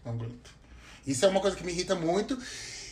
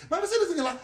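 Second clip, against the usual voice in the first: mock pest voice; 12 semitones higher, much faster than usual. Mocking an interrupting third person.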